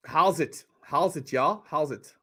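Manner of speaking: light South African imitation; South African accent. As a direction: try out a South African greeting. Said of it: "You can't do accents".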